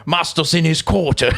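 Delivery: high, loud, laughing elf voice; Dobby the house-elf. Retold or imitated. Comedian doing Dobby to mock a British accent, laughing. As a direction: squeak it out like a timid house-elf, half laughing. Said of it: "It's like it's Dobby".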